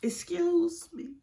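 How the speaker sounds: put-on high, slow girly call for attention; imitating a cellmate politely butting in; girl in the cell. Imitating a cellmate in jail calling her, high and slow. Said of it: "this girl in the cell was like".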